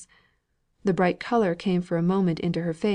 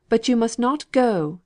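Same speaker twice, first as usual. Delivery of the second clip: higher, loud impatient order; impatient insistence; 5 semitones higher, 4 dB louder than usual. A narrator's reading. Mrs Thornton forbidding Margaret to leave, impatient. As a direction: press her, impatient.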